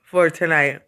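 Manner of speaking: talking through a yawn; words stretched by a yawn. Real, not acted. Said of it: "Excuse me for yawning".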